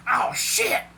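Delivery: high, alarmed exclamation; shocked curse. A narrator's reading. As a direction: blurt an expletive in sudden shock. Character sees his transformed body.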